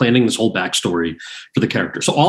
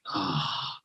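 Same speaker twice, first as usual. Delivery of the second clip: very soft, sinking "ah"; deflated sigh; 2 semitones lower, 15 dB quieter than usual. Retold or imitated. Actor asked for an Indian accent, quiet deflated sigh. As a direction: let out a quiet, dismayed breath. Retold reaction to accent request.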